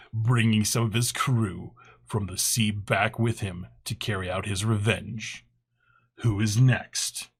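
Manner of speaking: dramatic reading. Shown as a demonstration. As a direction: read it like a spooky trailer. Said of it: "Dramatic reading".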